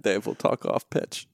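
whispered aside. Real, not acted. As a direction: whisper it off mic. Aside to co-host, off mic.

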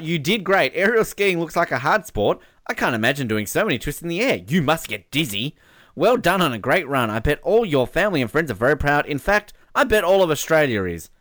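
lifted, emphatic message read-out; reading fan message. Acted. Radio host reading a family's message to an athlete, emphatic. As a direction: read it out with a big bouncy lilt.

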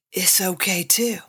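whispered aside. Acted. Reassuring the viewers who are okay, whispered. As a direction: lean in and whisper it.

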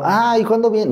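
put-on high, hopeful little boy; boy asking his absent mother, high and hopeful; young boy asking. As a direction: ask it like a small child waiting. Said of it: "Y yo".

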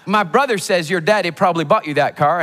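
mock Southern American voice; Southern American accent. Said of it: "I'm gonna do Southern American".

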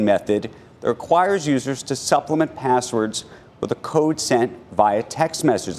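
brisk anchor news read. Acted. Reads news item on air.

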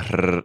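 trilled Spanish "rrr"; rolled R. Shown as a demonstration. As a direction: roll the R on your tongue. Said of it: "put in a little bit of".

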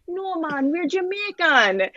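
high, laughing, slow parent voice; laughing mock parents. Telling her parents' reply, laughing in a high voice. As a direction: laugh through the parents' denial. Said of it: "and they're like".

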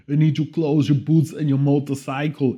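mild mock Arnold growl; Schwarzenegger impression.

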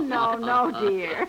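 giggling no, no, dear; laughing. Real, not acted. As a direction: laugh it off gently. Aunt laughs at child's mix-up.

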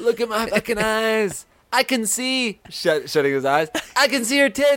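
high teasing voice; taunting high voice. Pretend. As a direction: tease in a squeaky voice. Taunting friend in play.

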